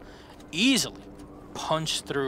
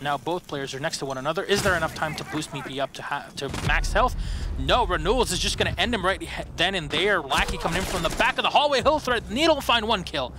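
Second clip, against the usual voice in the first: hyped play-by-play; 3 semitones higher than usual. Acted. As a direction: call the round like the final seconds matter. Live esports play-by-play.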